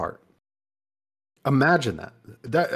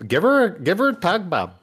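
hyped up; 8 semitones higher, 4 dB louder than usual. Real, not acted. Cheering a burp on.

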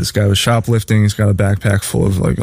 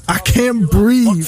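mocking whine; 10 semitones higher, much slower than usual. Mocking the suspect's complaint.

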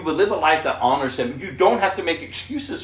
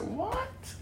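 shocked what; 10 dB quieter than usual. Retold or imitated. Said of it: "I said".

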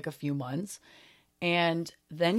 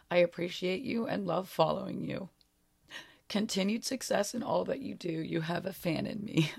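choking up while reading aloud; getting emotional; 3 dB quieter than usual. Real, not acted. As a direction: read it on the edge of tears, voice giving way. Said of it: "getting a little emotional now just reading it".

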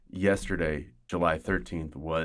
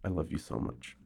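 tender; 2 semitones lower, 5 dB quieter, faster than usual. Pretend. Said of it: "Just kidding".

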